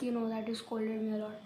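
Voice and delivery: unvoiced whisper, leaning in to confess. Real, not acted. Son whispers to his mother about being scolded. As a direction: whisper it so nobody else hears.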